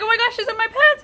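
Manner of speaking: high, loud re-enacted alarm; retold panic. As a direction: call it out in a storyteller's panic.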